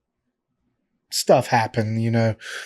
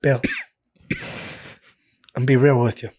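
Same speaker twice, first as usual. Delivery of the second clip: Vince lisp voice. Retold or imitated. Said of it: "he's got a lisp, and he, you know, kinda got a higher voice".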